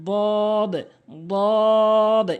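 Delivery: "দদ" long, tongue edge on upper gum; correct pronunciation. Shown as a demonstration. Teacher models the Arabic letter, correct long "দদ". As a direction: draw out "দদ" with a heavy first d. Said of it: "এভাবে".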